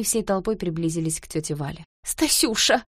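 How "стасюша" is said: higher, alarmed call of his name; startled, fussing aunt; a flustered, higher exclamation; flustered cry. A narrator's reading. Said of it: "воскликнула та всполошённо".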